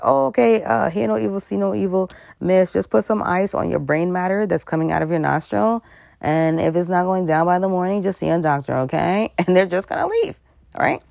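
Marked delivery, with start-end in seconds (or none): 0.0-9.3 high, dismissive mock police officer; mocking cop. Cop waving off a beaten woman, mock dismissive. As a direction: brush her off like a bored cop. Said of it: "he gonna be like".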